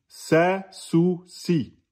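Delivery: Sa, sou, si with thin, light vowels; thinned vowels. Shown as a demonstration. Teacher insisting on the letter sin, thinned vowels. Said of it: "Le signe est aminci".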